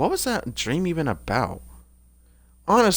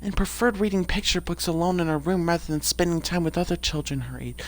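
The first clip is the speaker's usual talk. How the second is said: Snezhinka. Acted. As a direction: read it in a slightly raised character voice. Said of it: "I haven't really done Snezhinka's voice".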